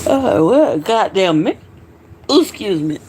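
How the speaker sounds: talking through hiccups; tipsy, hiccuping between words. Real, not acted. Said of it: "Still hiccuping".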